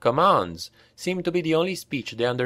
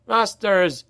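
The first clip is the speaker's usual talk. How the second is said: high, raised desperate cry; hoarse shout for the masters; 9 semitones higher than usual. A narrator's reading. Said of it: "All started shouting".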